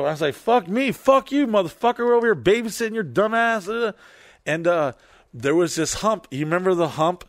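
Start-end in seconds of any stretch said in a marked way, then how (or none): 0.4-3.7 high-pitched indignant retort; acted quarrel. Retelling a backseat quarrel with a drunk friend, outraged comeback. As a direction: fire back at him, voice pitched way up.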